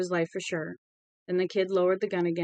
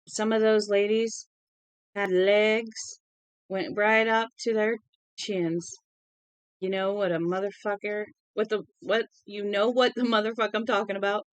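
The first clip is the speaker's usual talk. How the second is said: a tipsy, rambling hint of Southern accent; drunken Southern accent. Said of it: "his southern accent grew more pronounced".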